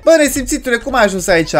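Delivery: high-pitched indignant outburst; indignant scolding. Pretend. Player scolding the runaway baby, high indignant cry. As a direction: tell off a naughty child, voice jumping up.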